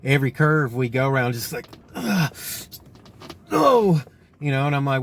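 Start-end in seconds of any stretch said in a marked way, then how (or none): 1.9-4.0 freaking out. Retold or imitated. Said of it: "he was freaking out".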